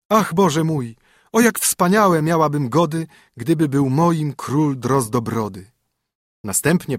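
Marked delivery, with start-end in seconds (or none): 0.1-5.7 princess lamenting. A narrator's reading.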